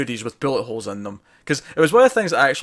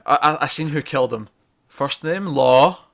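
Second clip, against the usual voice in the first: lightly acted fake confession; mock breaking down; 3 semitones higher, 4 dB louder, slower than usual. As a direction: imitate someone putting on a cracking-under-questioning act, a little raised. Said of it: "he puts on, like, the act that he's, he's breaking".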